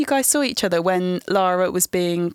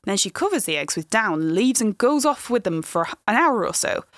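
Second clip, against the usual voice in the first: bad Lancashire accent. Shown as a demonstration. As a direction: have a go at a gentle Lancashire accent. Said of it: "if I may do a terrible Lancashire accent".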